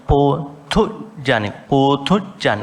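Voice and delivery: "potujjaniko" slow, with a breathy th in place of t; emphasised aspirate. Shown as a demonstration. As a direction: lean on the second syllable of "potujjaniko". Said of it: "not potujjaniko".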